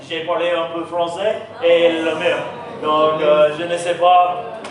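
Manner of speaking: French in a thick Southern accent; Florida accent. Shown as a demonstration. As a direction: speak French like a Florida hillbilly. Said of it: "this is how Florida sounds".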